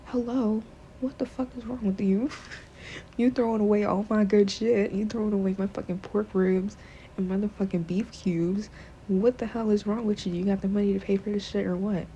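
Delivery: hamming up an outraged husband; mock angry husband. Husband yelling at his wife over the thrown-out meat, mock angry.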